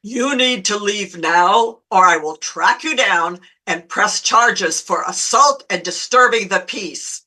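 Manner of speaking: deliberate, firm warning, slightly low; imitating a calm voice of command. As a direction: lay down the law with steady authority. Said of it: "If you lower your voice, you sound authoritative".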